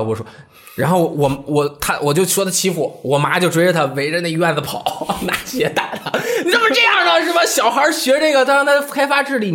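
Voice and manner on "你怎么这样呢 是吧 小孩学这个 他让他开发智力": scolding mother. Retold or imitated. Mother scolding brother, retold.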